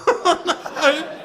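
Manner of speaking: high, loud fake-wounded voice; hammed-up hurt excuse; loud pretend sob of retreat; mock upset.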